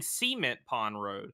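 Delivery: Cement stressed on the first syllable, SEE-ment; wrong pronunciation. Retold or imitated. Boss quoting the traffic reporter's mistake, Cement as SEE-ment. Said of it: "I was saying it the wrong way".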